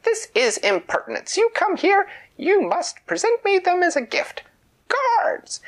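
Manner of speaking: shrieking high and loud, calling the guards; a furious royal tantrum rising to a yell; outraged queen. A narrator's reading. Queen voiced in a story.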